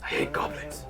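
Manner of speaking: grumbling giant. Acted. Giant confides hatred to the player, soft grumbling giant. Giant voiced by game master.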